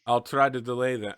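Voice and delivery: put-on line still carried by the NPC accent, not the plain voice; leftover character accent. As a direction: slip and say it in the other character's accent. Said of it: "I'm still in the other accent".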